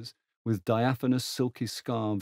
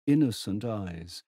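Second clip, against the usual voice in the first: ordinary delivery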